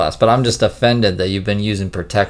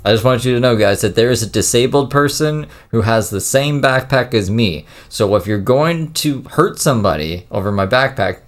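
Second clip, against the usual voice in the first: retold livestream announcement; 4 semitones higher than usual. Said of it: "he got on live stream and was like".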